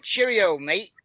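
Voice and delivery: a self-confessed poor British accent; bad British accent. Shown as a demonstration. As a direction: toss off a clumsy British accent "Cheerio, mate". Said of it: "I can't do a good British accent".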